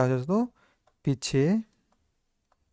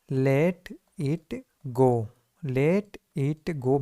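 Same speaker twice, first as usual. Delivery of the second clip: slow repeat-after-me; much slower than usual. Shown as a demonstration. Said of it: "मेरे साथ repeat करें दोस्तों".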